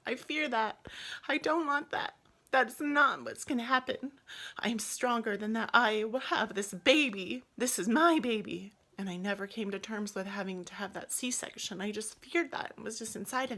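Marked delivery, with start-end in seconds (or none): 0.1-8.7 emotional breakdown. Retold or imitated. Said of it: "and I said, you know".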